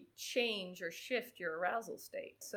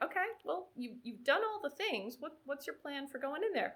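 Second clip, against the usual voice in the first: retold coaxing questions; 6 semitones higher than usual. Coach questioning the anxious swimmer.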